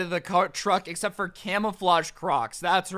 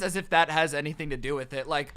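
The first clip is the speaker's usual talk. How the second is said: ordinary delivery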